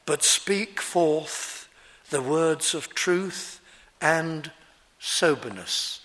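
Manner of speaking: slow, deliberate, composed declaration; measured and unhurried quotation; calm. Retold or imitated. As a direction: weigh each phrase soberly. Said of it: "He says it calmly".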